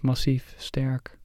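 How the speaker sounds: whispering. Real, not acted. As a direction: breathe the words out. Whispered qualities of the mountain.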